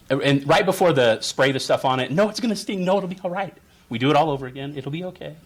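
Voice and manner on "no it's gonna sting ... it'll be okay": higher, coaxing parental reassurance; soothing. Acted. Parent before the spray stings, soothing and coaxing. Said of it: "And they're soothing".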